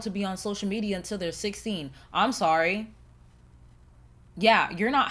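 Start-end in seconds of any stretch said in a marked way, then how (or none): 2.1-2.9 mock apology; sarcastic. Real, not acted. Defending strict phone rules to viewers, sarcastically apologetic. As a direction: say sorry without meaning it. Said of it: "That was sarcasm in my voice".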